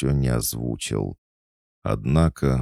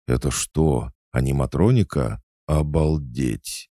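awed delight; 3 semitones higher, 3 dB louder than usual. Acted. Boy marvelling at the fox doll, amazed. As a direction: marvel like a thrilled geek. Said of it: "Восхищению Толика не было предела".

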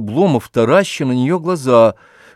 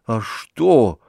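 a touch of fear, understated; fearful. A narrator's reading. Oblomov fearfully asks what she means, mildly afraid. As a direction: ask with mild alarm. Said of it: "со страхом".

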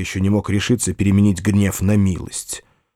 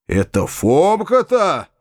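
curt indignant landowner; 6 semitones higher than usual. A narrator's reading. Old landowner demanding of the young narrator, abrupt. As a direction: bark out the disbelief. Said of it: "спросил он отрывисто".

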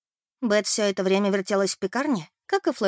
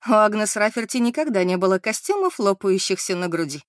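laughing; 3 dB louder than usual. Acted. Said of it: "рассмеялась Мэри".

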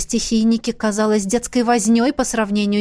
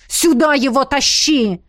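крик; 3 semitones higher, 3 dB louder than usual. Acted. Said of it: "крикнул он".

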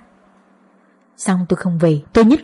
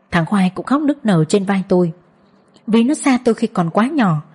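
usual speaking voice

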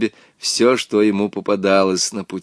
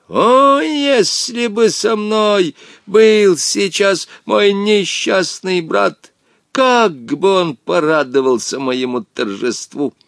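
high, slow, gloating villain shout; gloating cry; 8 semitones higher than usual. A narrator's reading. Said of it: "злорадно ... выкрикнул". (злорадно)

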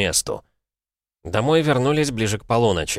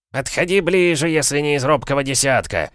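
barker's shout; 6 semitones higher than usual. A narrator's reading. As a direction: call the crowd in like a showman. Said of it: "распинался оратор". (зазывала на ярмарке, громко)

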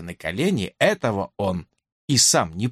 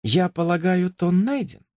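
decisive; 6 semitones higher than usual. A narrator's reading. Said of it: "решительно закончила".

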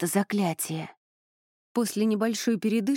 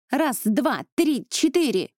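high, loud shouted count; barked count; 5 semitones higher, 4 dB louder than usual. A narrator's reading. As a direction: bark the count for the squad. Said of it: "гаркнула она".

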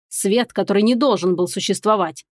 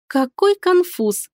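slow, higher mocking giggle; gloating giggle; 8 semitones higher, much slower than usual. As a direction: snicker with malicious glee. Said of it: "злорадно хихикнула я".

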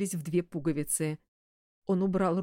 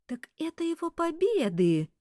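higher, startled exclaim; flaring up; 10 semitones higher than usual. A narrator's reading. Secretary reacts to director, flaring up. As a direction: flare up in shock. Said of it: "вскинулась Василиса".

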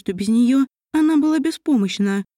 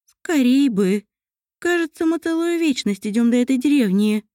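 put-on weary elf girl; 4 semitones higher than usual. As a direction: drag it out, tired of walking. Mariel tired of walking.

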